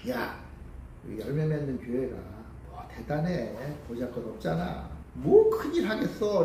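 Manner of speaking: mildly dismissive, low and soft, lifting at the end; lightly voiced tempter talking the listener down; belittling Satan. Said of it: "사단은 우리에게 와서 우리의 마음속에 그렇게 얘기를".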